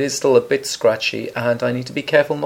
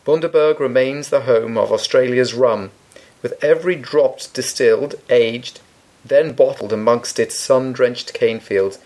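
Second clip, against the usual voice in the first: advert read. Acted. Reads out the rum's blurb.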